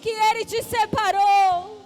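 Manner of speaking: climactic preaching. Acted. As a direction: preach at full force to the altar.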